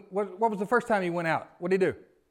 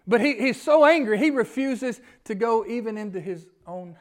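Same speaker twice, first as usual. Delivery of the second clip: preaching loudly about anger; 3 semitones higher, 5 dB louder than usual. Acted.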